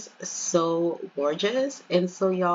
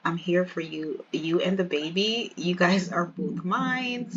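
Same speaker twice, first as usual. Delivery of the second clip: lightly voiced loving fiancé, a touch lower; tender declaration; 3 semitones lower than usual. Fiancé declares his love.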